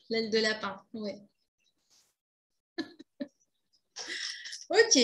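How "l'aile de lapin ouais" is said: laughing. Real, not acted.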